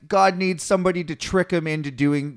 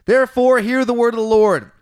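prophetic proclamation; 6 semitones higher, 6 dB louder than usual. Retold or imitated.

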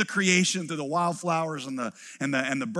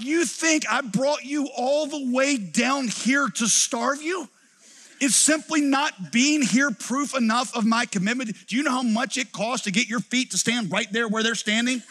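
exasperated dad; 5 semitones higher than usual. Retold or imitated. Dad lecturing his hungry kids, exasperated. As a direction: let the exasperation build, half laughing. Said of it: "I'm like".

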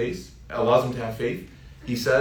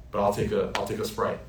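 mild, polite order in a lowered voice; gentle, nice; 3 semitones lower, faster than usual. Shown as a demonstration. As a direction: keep it easy and nice. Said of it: "you can say gently, nicely".

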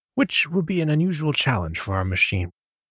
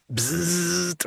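bug zapper zap; 6 semitones higher than usual. Shown as a demonstration. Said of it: "or some, some terrible noise".

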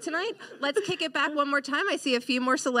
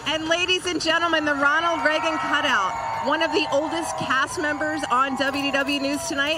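raised showbiz announcement; announcer voice. Acted. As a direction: announce the next star. Host announces arrival.

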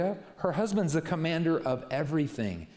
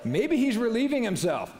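higher, louder jeer breaking into a laugh; mocking taunt; 9 semitones higher, 4 dB louder than usual. Elijah trash-talking Baal's prophets, high laughing jeer. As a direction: sneer it and laugh at the end. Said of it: "He's talking trash to them".

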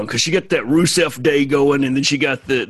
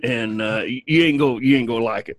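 Alabama drawl. Acted. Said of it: "Are you gonna talk like this the whole time".

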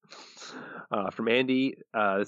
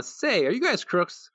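Bart voice; 10 semitones higher, slower than usual. Retold or imitated. Bart's line in a read quote.

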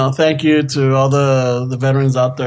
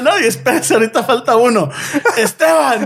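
high calling voice; 8 semitones higher, faster than usual. Retold or imitated. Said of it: "And I'm like".

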